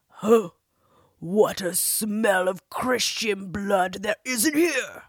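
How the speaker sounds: slow, loud booming giant roar; giant shout. Acted. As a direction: bellow it like a hungry giant. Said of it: "shouted the giant".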